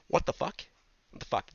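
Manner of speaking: whispered disbelief, no voice; stunned whisper. Real, not acted. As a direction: whisper it twice, aghast at the number. Stunned by the huge number.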